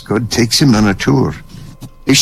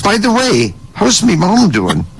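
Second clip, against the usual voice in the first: casual aside; 8 semitones higher than usual. Acted. Agent casually asks about mother.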